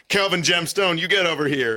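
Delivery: stern father's summons. Retold or imitated. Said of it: "he says".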